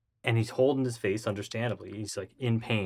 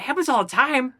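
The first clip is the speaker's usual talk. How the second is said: high, loud incredulous echo; acted stunned repeat; retold disbelief; 12 semitones higher, 5 dB louder than usual. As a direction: throw it back in mock astonishment. Incredulous echo of her reply.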